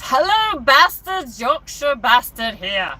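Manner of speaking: put-on jokey Yorkshire accent, high on Hello; Yorkshire impression. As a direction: ham up a Yorkshire greeting. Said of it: "That's my impression".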